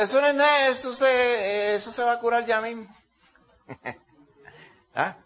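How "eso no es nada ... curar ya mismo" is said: alto y despreocupado, quitándole importancia; despreocupado confiado. Retold or imitated. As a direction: restarle importancia como si nada. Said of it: "Y yo dije". (confiado, quitándole importancia a la herida)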